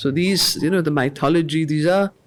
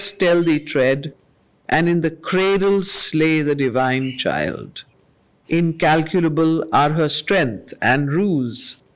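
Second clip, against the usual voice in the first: poem recitation. Acted. Teacher reading Savitri lines to the class, measured and solemn. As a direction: let each line land with weight. Reads Savitri verse aloud.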